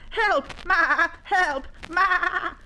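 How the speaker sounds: high bleating cry for help; panicked shouting. Acted. Young llama flees the lions calling Ma, panicked shout. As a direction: bleat loudly for mother in alarm.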